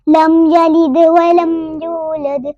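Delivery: slow, measured verse with held long vowels; Quran recitation. Shown as a demonstration. Teacher introduces the next verse, measured recitation. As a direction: recite deliberately, bouncing each final D.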